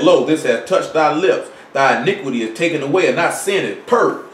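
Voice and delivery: steady, measured reading of Isaiah; scripture reading. Acted. Preacher reading Isaiah to the congregation, solemn scripture voice.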